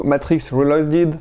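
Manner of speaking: slow, clumsy English accent on the title; a French vlogger's half-joking English accent on a film title; self-mocking English accent. Real, not acted. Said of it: "avec mon super accent anglais comme d'habitude".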